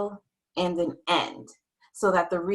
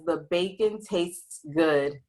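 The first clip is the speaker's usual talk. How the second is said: slow careful reading; 2 semitones lower, slower than usual. Shown as a demonstration. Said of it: "Now I can see it says".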